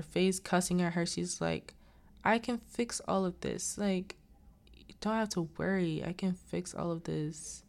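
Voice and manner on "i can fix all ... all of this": higher, lightly acted reassurance; reassuring. Lindsay tells her not to worry, mildly reassuring. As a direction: gently take charge of the problem. Retold character reassures a panicking friend.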